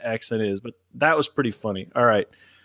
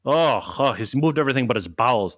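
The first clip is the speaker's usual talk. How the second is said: Faraday impression. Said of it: "There's your Faraday impression".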